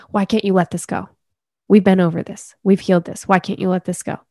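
frustrated nagging at yourself; harsh inner critic. Retold or imitated. Inner critic scolding yourself over old issue, exasperated. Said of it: "That's not a voice of compassion".

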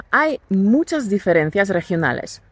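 usual speaking voice

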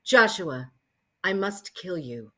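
low, slow menacing threat; deep sinister villain line; menacing Conan voice. Acted. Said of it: "I would be sounding like this".

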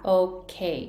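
OK with a short, barely aspirated K; 日本人風の発音. Shown as a demonstration. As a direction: say OK cutting the K short. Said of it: "多くの日本人がOKって発音す". (日本人風に短いKのOK)

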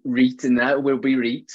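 "reet" with a long Yorkshire ee; Yorkshire dialect. Shown as a demonstration. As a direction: chuck a bit of Yorkshire in. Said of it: "I'm just chucking more Yorkshire in now".

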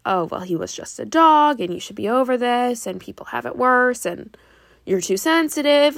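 mock the harsh critic who says "sensitive"; judgmental inner voice. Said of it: "Judgment of, like".

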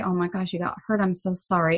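softly retold sympathy; empathetic voice. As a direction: gently console a hurt child, understated. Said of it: "use that empathetic voice".

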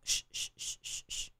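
put-on mother hushing a crying baby; shushing a baby. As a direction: hush the crying baby, barely a breath. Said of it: "en cuanto empieza a llorar le decimos".

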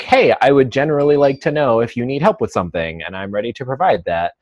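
quick, chipper imitation of a helper; mock chipper. Passerby offering the trainer help, chipper. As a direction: rattle it off like an eager helper. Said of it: "not like a chipper".

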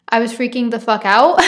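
laughing while telling. Real, not acted. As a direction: chuckle through the line. Laughing about panic.

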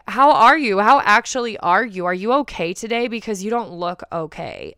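loud, earnest check-in on a friend; really mean the question this time; caring friend asking how you actually are; genuine concern. Shown as a demonstration. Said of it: "It's so fake".

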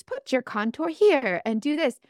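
lightly put-on tutorial voice, slow; slow, measured mimicry of a beauty influencer; imitating makeup artists. Makeup artist giving viewers contour instructions, lightly imitated. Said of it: "talk like the rest of the artists".

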